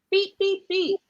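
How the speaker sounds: high, bright beep-beep honk; a light beep beep from a little truck; truck horn beeps. Acted. Truck honks in story.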